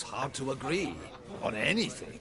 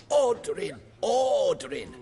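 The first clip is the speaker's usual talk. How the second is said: shouting; 8 semitones higher, 6 dB louder than usual. Retold or imitated. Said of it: "always shouting".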